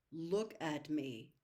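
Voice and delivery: slow, firm command. Acted. Father to his son, a slow stern command. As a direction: order him to look, word by word. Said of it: "Mister Murray commanded".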